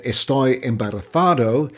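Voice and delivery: lightly put-on Spanish accent; a hint of a Spanish accent on "Estoy embarazado". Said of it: "my best Spanish accent".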